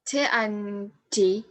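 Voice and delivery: "T and D" said slowly, one sound at a time; slow listing. Shown as a demonstration. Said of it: "after alveolar plosive".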